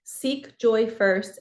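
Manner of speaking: each word of "Seek joy first" drawn out slowly; slow emphatic reading. Acted. Slowed key line of card.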